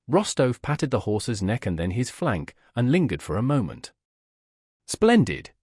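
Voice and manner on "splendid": high, loud burst of delight; a young cadet's joyful outburst over his horse; delighted exclamation. A narrator's reading. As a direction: cry out in admiration of the horse.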